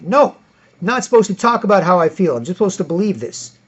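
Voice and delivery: mild mock zealot refusal. Acted liberal reply.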